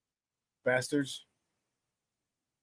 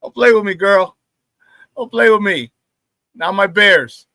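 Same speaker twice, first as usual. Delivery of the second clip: loud, playful warning; 5 dB louder than usual. Real, not acted. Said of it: "defending his team".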